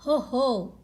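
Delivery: loud jolly ho ho; hearty laugh. Acted. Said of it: "Daddy Pig laughed".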